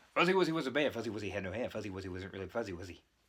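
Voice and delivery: rapid-fire speech. Demonstrating a tongue twister for pronunciation practice, as a rapid tongue twister. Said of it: "say things rather fast".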